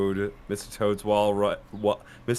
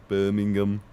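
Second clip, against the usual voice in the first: put-on Brummie accent; 3 semitones lower than usual. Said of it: "how do they say it".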